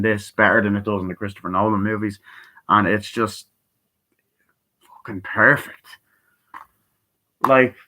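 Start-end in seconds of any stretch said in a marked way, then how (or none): 4.8-5.9 awed whisper. Real, not acted. Awed verdict on the movie.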